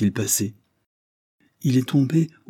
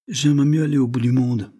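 raised, louder protest; a lightly raised plea to avoid the task; reluctant outburst; 5 semitones higher, 5 dB louder than usual. Acted. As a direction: blurt it out, higher and louder. Reluctant outburst, high and loud.

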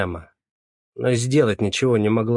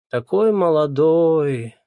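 higher, slow dismayed exclamation; gasping; 6 semitones higher, 4 dB louder, much slower than usual. A narrator's reading. Neighbour lamenting the young man's death, dismayed gasp. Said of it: "ахнула какая-то".

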